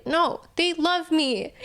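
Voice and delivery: slow, high, drawn-out insistence on "No, they love me"; firm self-reassurance. Retold or imitated. Answering the doubting voice in her head, "No, they love me" slow and insistent.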